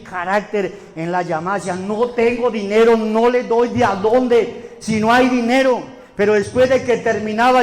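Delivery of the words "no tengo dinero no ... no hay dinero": unbending, deliberate refusal; firm. Retold or imitated. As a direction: stand your ground on the phone. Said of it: "yo me portaba firme".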